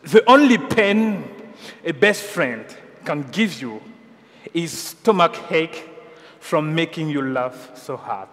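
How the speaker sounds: slow, careful English read with a thick French accent; a French preacher reading an English quote, apologising for his accent; self-declared bad English accent. Shown as a demonstration. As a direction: lecture hésitante en anglais avec un fort accent français. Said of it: "mon accent sera très mauvais".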